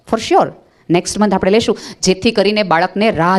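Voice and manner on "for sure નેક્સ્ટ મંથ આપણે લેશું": put-on for sure rising, a soothing promise to a child; calm the child with for sure; reassuring promise. Shown as a demonstration. Parent reassuring a child who wants something now, soothing promise. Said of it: "થોડુંક વેઇટ કરતા શીખવો".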